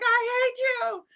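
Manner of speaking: high, slow imitated complaint; mock exasperation. Husband to laughing wife after her prank, high mock exasperation. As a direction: squeal it slowly in pretend outrage.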